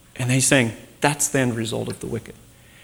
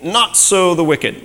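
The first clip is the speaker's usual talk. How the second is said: "not so the wicked" slow, higher and louder; emphatic; 6 semitones higher, 4 dB louder, slower than usual. Shown as a demonstration. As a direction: hammer home the contrast. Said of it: "it's emphatic".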